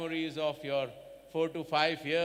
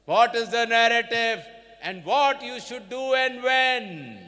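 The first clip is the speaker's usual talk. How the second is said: rising rhetorical; 7 semitones higher, 13 dB louder than usual. Real, not acted. Rhetorical questions to graduating students.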